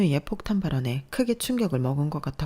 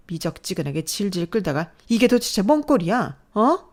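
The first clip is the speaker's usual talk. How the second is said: angry berating; 3 semitones higher, 4 dB louder than usual. Acted. Mother berates crying daughter.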